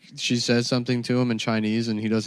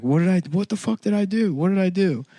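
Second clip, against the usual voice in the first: bewildered; 10 semitones higher than usual. Retold or imitated. Arrested, bewildered.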